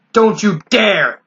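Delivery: slow, stern snap; a stern snap at her; snapping. Acted. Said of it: "Sunset Shimmer snapped".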